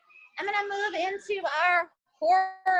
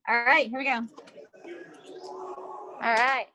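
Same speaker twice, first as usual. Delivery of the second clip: talking through a face mask; muffled voice behind a mask; 3 semitones lower than usual. Real, not acted. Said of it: "Can you guys hear me with my mask on?".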